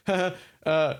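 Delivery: high, jokey nervous cover. Shown as a demonstration. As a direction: play it off as a joke. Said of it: "a jokey beat".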